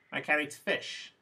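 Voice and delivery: "fish" lifted in pitch as the focus word; stress on fish. Shown as a demonstration. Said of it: "Fish is the last piece of new information".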